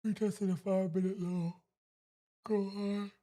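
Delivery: root for the price to climb; hyped-up call at the screen; excited urging. Real, not acted. Watching chart, urging price.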